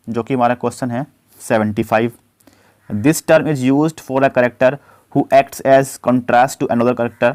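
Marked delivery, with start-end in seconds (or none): 2.9-7.3 slow, deliberate dictation of the question; slow question read-out. Acted. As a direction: read it out word by word for students. Reads quiz question slowly. (धीमी आवाज़ में प्रश्न पढ़ना)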